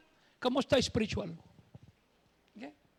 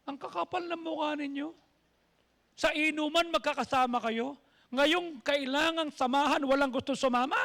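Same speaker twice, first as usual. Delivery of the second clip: higher, indignant scolding of the group; a neighbor scolding friends who abandon one of their own; 3 semitones higher than usual. Retold or imitated. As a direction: tell them off for not coming along.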